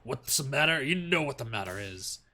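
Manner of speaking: a hint of a threatening father; threatening masculine voice. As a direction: menace the boyfriend on the phone. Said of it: "a threatening masculine voice".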